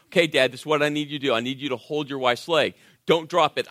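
brisk, fast, lightly voiced nurse talking down; condescending nurse. Nurse instructing the new dad, lightly mimicked condescension. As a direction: rattle it off like a patronising nurse to a kid. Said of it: "she talked down to me like I was a little five-year-old".

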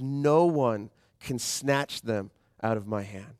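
slow, with weight on No; slow emphatic reading. Acted. Pastor reading Jesus' promise to the church, slow and emphatic. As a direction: lean into No and take it slowly.

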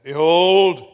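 loud, projected preaching; strong emphasis. Retold or imitated. Preacher testing a dozing congregation, strong emphasis. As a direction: declaim it to the back row. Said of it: "put strong emphasis on".

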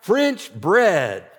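players' shout back, mildly imitated; retold team shout. Players answering their coach, mild mock shout. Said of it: "they shout back".

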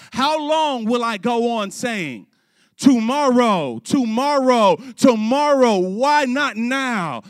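loud, high preacher's cry; impassioned acted lament; anguished crying out. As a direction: draw out each repeated word at full voice. Preacher acts out Augustine's anguished cry.

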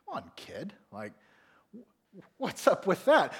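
exasperated under-the-breath whisper; tired parent whispering to themselves; whispered thought. Retold or imitated. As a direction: mutter it to yourself, annoyed. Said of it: "And you think".

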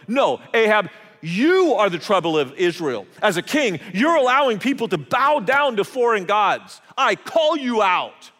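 defiant challenge. Retold or imitated. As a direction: throw the accusation back at the king. Prophet defies the king.

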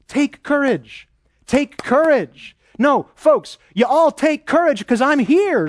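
encouraging God. Acted. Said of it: "So encouraging".

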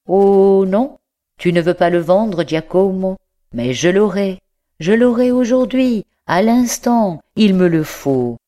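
the scholar's fevered craving, building; passionate insistence. A narrator's reading. L'écolier s'exalte, veut le livre. (exaltation croissante, plus aiguë et plus forte)

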